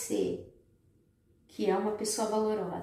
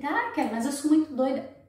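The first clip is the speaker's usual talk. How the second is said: mock woman voice; 5 semitones higher, 6 dB louder than usual.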